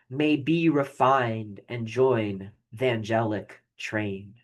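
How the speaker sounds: slow, measured poem recital; poem reading. Shown as a demonstration. Teacher reading a poem aloud to the class, slow and measured. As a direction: read the verse with weight and care.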